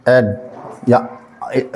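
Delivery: एड drawn out slowly and tried again; teacher showing which vowel sound to use. Shown as a demonstration. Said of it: "आ से नहीं पढ़ेंगे".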